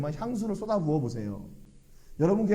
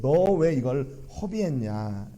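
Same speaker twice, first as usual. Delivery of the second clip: slow, drawn-out mock scolding; retold reproach; 3 semitones lower, slower than usual. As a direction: imitate a lingering reproach without shouting. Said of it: "책망합니다". (길게 늘여 나무라는 흉내)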